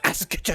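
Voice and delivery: "asked" broken up, every consonant released, ask-t-uh; exaggerated consonants. Shown as a demonstration. Host teasing about the final D, exaggerated consonants. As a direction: overdo the k and ending of "asked". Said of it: "It is a D".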